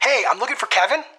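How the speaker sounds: upbeat, very high-pitched, loud, high-energy delivery. Demonstrating his phone opener asking for the decision maker, in a very high energy tone. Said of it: "In a very high energy tone".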